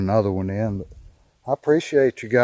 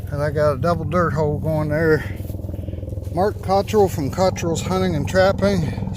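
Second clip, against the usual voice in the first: yelling over helicopter; 6 semitones higher than usual. Real, not acted. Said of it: "Sorry about the helicopter".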